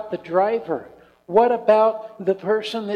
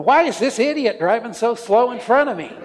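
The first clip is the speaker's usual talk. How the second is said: mock road rage; 3 semitones higher, 4 dB louder than usual.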